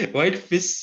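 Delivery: White fis with an s, no sh; grandma's fis. Retold or imitated. Teacher recalling her grandma's way of saying fish, s ending. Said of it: "That's how my grandma used to say fis".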